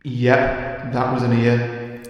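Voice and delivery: slow, deliberate retake of the giant's voice; deep booming voice retake. Shown as a demonstration. Retake for the editor to add echo, slow mock boom. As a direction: draw it out slowly like a giant. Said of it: "Give me another take".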